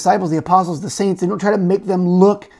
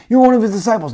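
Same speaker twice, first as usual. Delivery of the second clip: higher, louder accusation; accusing call; 6 semitones higher, 6 dB louder, faster than usual. Acted. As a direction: nail him with it. Bystander accuses Peter.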